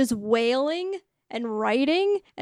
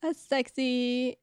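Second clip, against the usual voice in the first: swooning. Pretend.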